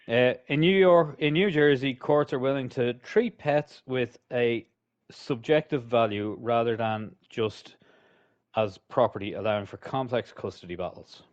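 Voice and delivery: reading aloud haltingly. Real, not acted. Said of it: "you really struggled to read that sentence".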